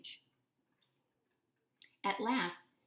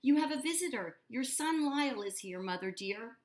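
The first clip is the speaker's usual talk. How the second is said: higher, louder sing-song calling; 8 semitones higher, 4 dB louder than usual. A narrator's reading. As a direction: call out sweetly over the water. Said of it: "Hector's sing-song voice rang out".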